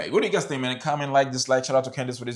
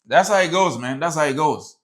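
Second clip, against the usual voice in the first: emphatic; 4 semitones higher, 5 dB louder than usual. Real, not acted. Reactor exclaims at the story.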